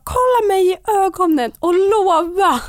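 high, loud, drawn-out insistence; retold fierce demand. Labouring woman demanding the midwife's promise, desperate and loud.

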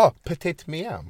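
slow, put-on French words; mock French. Showing off their little French, mock French accent. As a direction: savour it in a hammed-up French accent.

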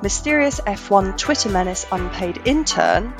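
hoarse from being unwell; rough, croaky sick voice; gravelly voice. Real, not acted. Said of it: "my very gravelly, sexy voice".

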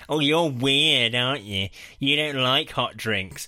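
lightly put-on needling coworker voice; mock office bully, stretching the words. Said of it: "I get bullied at work".

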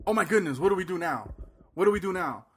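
frantic, like a deer in the headlights; panicked. Retold or imitated. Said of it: "the other aspect is".

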